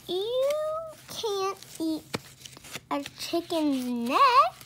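high, slow scornful; scoffing. Acted. Wife scoffing at the useless chicken, slow and scornful. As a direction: drag it out scornfully.

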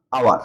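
hour said as "awar", H silent; initial AA sound. Shown as a demonstration. Teacher showing the opening sound, hour begun on AA without H. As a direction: start hour on an open "aa", no H. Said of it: "আ হয়েছে".

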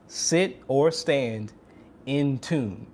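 slow, spell out "Sit or stand in tune" word by word; slow, deliberate repeat. Shown as a demonstration. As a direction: lay each word down slowly for emphasis. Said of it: "the last tip is".

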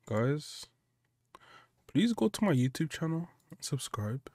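unvoiced whisper straight to viewers. A whispered plug to his viewers, pleading. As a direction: hush it like a secret plea.

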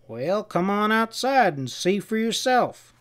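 lifted, drawn-out beckoning; inviting. A narrator's reading. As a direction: invite him out with a drawl. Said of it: "Pinky invited".

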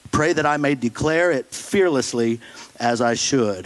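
measured, solemn Bible reading; scripture reading. Acted. Pastor reading Ephesians to the congregation, solemn reading. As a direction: read the passage with weight.

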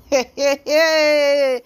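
loud, drawn-out "hey" laugh; gossip's loud laughing exclamation. Real, not acted. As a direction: let out a long, loud reaction laugh. Reacts mid-gossip to the twist.

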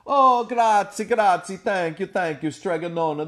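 loud, high relieved thanks; overjoyed townsfolk; grateful cries. Acted. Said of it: "the people cried".

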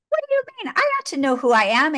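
very high, quick protest; Alice insulted by the caterpillar; indignant Alice. Retold or imitated. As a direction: squeak it out fast.

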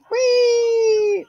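high gleeful whoop on the jump; excited whee. Real, not acted. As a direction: let out a thrilled shout as you leap. Jumping off in the game.

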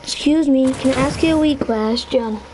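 put-on Scottish accent. Shown as a demonstration. Player shows off accents to friends, Scottish accent. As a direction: ask politely in a mock Scottish accent. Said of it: "That's Scott".

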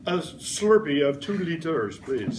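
lightly put-on French accent ordering food; playful customer in mock French. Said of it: "you will ask".

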